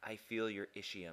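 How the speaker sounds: close, secret, hushed half-whisper. Speaker demonstrates what to say to someone sitting on your lap, half-whispered in the ear. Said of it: "whisper in their ear".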